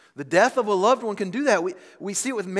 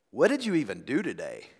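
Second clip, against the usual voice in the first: a touch of criticism in the question; critical; 5 semitones lower than usual. Acted. Husband coming home to wife in messy house, critical. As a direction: ask it as a mild accusation. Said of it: "One is laced with criticism".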